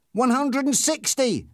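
high, slow shouted count; excited shout. A narrator's reading. Passenger calling the rising speed, excited shout. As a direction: shout each number out high. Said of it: "he shouted".

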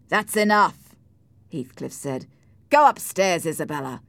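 loud, firm interruption; stern command. Acted. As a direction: cut her off sharply. Husband orders wife out.

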